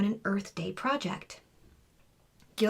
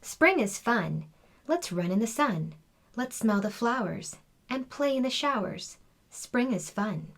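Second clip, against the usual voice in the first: reading a poem; 2 semitones higher than usual. A narrator's reading. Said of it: "She read her poem aloud".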